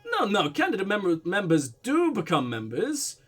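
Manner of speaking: put-on Russian-German accent. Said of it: "weird blend of Russian and German".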